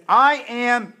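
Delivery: proclaimed loud with long pauses; the Lord announcing himself, pausing between words. Acted. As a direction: declare each "I am" with force, fading on the last. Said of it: "He says".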